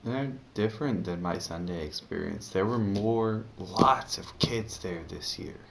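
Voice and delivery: lisping, tongue too sore to move; lisp from bitten tongue. Real, not acted. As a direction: speak carefully around a bitten tongue. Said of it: "I'm talking funny because I'm bit".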